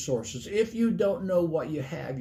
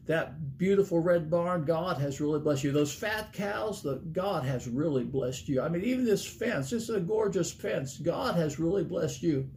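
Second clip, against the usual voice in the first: lingering, lifted praise, acting out an admirer; retold admiration; 2 semitones higher than usual. Salesman admiring a farmer's place, retold with wonder.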